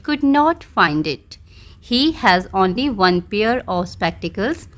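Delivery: very slow story reading, word by word; slow dictation reading. Shown as a demonstration. Teacher slowly reading the model story aloud to pupils. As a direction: read the model story slowly so they can copy.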